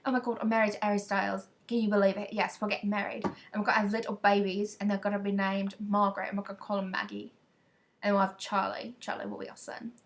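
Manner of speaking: put-on British accent. Telling people about marrying a singer, British accent. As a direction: gush in a pretend British accent. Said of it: "I would pretend like I was British".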